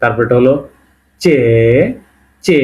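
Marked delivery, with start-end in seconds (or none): 1.2-2.6 চে as a long "cheh"; pronunciation demo. Shown as a demonstration. Teacher naming a Russian letter, চে drawn out as "cheh". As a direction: model চে with a clear ch, vowel held. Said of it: "মানে বাংলা উচ্চারণ করলে চ".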